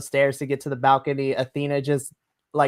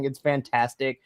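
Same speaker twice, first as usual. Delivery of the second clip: usual speaking voice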